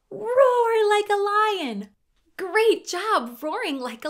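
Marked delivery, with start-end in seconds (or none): 0.1-1.9 big, loud, higher roar of the words; lion roar call. Shown as a demonstration. Host roaring like a lion for children, loud and playful. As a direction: bellow it out like a lion for the kids. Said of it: "Can you roar like a lion with me?".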